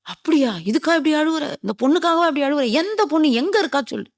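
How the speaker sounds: acted-out astonished interrogation; incredulous questioning. Questioning the weeping lovesick man.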